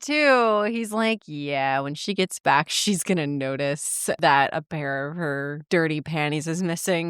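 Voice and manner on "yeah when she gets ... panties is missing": a touch of low smugness, lightly done; lightly voiced low man. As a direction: tease it out like a smug man, low. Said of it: "I love the way he says it".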